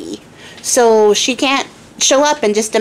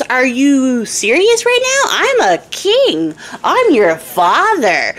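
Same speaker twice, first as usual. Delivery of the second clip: slow, higher, each phrase hammered; ranting king; 4 semitones higher, much slower than usual. Acted. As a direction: spell out your rank, appalled. King rants at youngest daughter.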